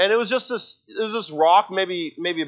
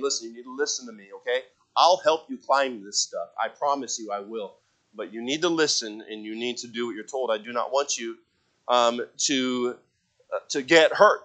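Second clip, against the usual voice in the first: gentle talk; 3 semitones lower, 4 dB quieter than usual. Retold or imitated. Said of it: "I had a little talk with him".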